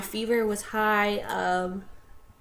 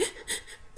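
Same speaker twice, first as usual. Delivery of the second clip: quiet, voiceless mock sniffles; imitated sniffling; 13 dB quieter than usual. Shown as a demonstration. Hiding tears from parents in the car, imitated sniffling. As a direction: act out stifled crying sniffs. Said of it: "like, sniffling and whatnot".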